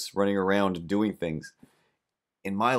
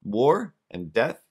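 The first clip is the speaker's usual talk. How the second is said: higher, a touch louder mock night-terror yell; mock scream; 5 semitones higher, 3 dB louder, much slower than usual. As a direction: shout the words like a half-hearted night terror. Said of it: "if you scream".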